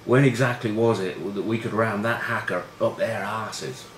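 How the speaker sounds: slow, earnestly puzzled question; Mike Teague. Retold or imitated. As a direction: draw it out like a baffled pupil asking teacher. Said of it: "I'm slightly confused".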